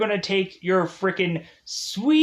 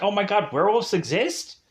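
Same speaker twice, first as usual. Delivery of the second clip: thrilled; 5 semitones higher than usual. Retold or imitated. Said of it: "she would have just been like".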